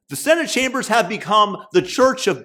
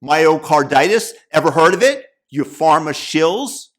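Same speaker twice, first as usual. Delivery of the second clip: loud, punchy mock retort; lightly acted combative comeback, raised volume; firing back; 5 dB louder than usual. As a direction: fire it back as an imitated challenge. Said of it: "he fires back".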